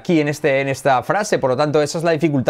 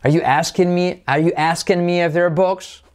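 "are you asking me if they're books?" high, rising at the end; raised query ending up on "books"; question intonation; 5 semitones higher than usual. Shown as a demonstration. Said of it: "entonación sería, como es pregunta".

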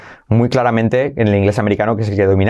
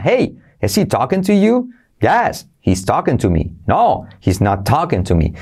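sing-song rising question; hey cue. Shown as a demonstration. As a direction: pitch up on "Hey", carry it into the question. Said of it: "primero con las partículas".

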